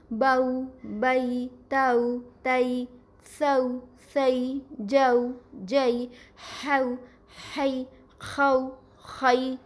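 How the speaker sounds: each example glided softly: باؤ, بئی, تاؤ; soft gliding diphthongs. Shown as a demonstration. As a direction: slide gently through each au and ai sound. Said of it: "نرمی سے slide کر کے پڑھتے ہیں".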